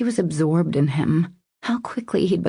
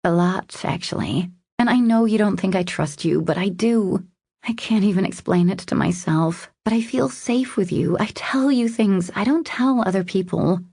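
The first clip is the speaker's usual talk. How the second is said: lightly voiced, higher female lead; confiding woman; 3 semitones higher than usual. Woman admitting she trusts him, confiding. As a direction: open up with a heartfelt confession.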